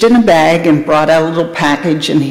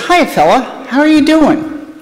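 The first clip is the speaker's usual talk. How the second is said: higher, sing-song voice for a dog; greeting a dog; 8 semitones higher than usual. Acted. Butcher greets the big dog in a higher, friendly voice. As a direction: chat up the dog like a friendly pet owner, pitched up.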